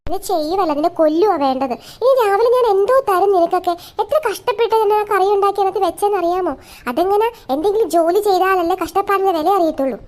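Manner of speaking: loud, high ranting mother; angry scolding. Acted. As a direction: keep blasting her for ruining the curry. Mother keeps scolding daughter. (ദേഷ്യത്തോടെ ഉച്ചത്തിൽ ശകാരം)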